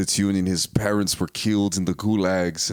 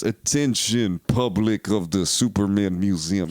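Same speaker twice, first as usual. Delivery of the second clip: mock public-address announcement in a Russian accent; slower than usual. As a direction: announce it like a hammy Russian over loudspeakers. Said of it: "you hear over the speakers".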